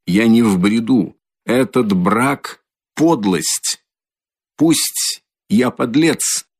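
strained, slow and rising ultimatum; last strength. Acted. Exhausted brother giving his sister an ultimatum, straining. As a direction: force out the last words. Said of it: "собрав последние усилия".

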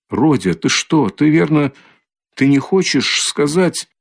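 a mother suddenly alarmed. Acted. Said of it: "начала было в испуге".

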